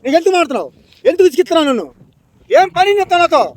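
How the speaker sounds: indignant, rising irritation; real exasperation. Real, not acted. Man telling off the stranger who keeps pestering, exasperated. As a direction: demand to be left alone, ending high. Annoyed man confronts prankster.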